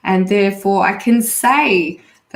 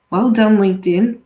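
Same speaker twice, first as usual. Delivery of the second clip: sarcastic; 2 semitones higher, 3 dB louder than usual. Real, not acted. Mocking LinkedIn's limit.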